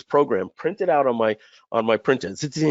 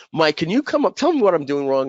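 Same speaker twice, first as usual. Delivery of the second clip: teacher asking help; 5 semitones higher than usual. Retold or imitated. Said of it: "And he would say".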